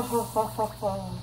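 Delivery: mock vampire counting laugh; a hint of the Count's cackle. Partner hears the Count, a light mock vampire laugh. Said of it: "That's from, like, The Count".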